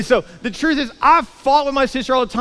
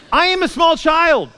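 raised, drawn-out cry of indignation; indignant protest; 7 semitones higher, 4 dB louder, slower than usual. Acted. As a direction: protest loudly, each word slow and high. Indignant child's protest in his story.

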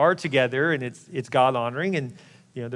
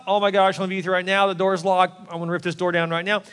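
raised, urgent outburst; eager lover; 4 semitones higher, 3 dB louder than usual. Acted. Pastor acting the lover who comes running up, mock eagerness. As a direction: burst out like an impatient suitor at the door.

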